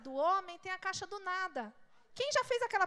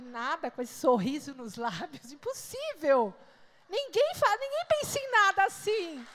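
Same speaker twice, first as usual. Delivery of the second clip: teasing disbelief; 7 dB louder than usual. Retold or imitated. Wife retelling her teasing disbelief at husband's answer. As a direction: call his bluff with mock outrage.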